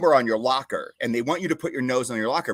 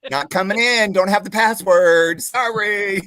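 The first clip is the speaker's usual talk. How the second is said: sassy refusal; 7 semitones higher, 7 dB louder, slower than usual. Retold or imitated. Teasing officers from guard post.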